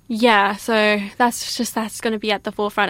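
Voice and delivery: breathless, catching breath; winded between words. Real, not acted. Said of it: "I'm out of breath".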